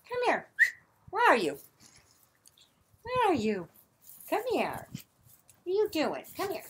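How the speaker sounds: high, loud call to an animal; real call, high and loud. Real, not acted. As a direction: call the animal over across the barn. Calling animal in the barn.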